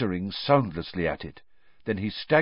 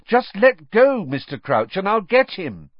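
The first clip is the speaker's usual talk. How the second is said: urgent plea; 9 semitones higher, 7 dB louder than usual. A narrator's reading. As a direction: plead firmly to be let go. Harry pleading to be released.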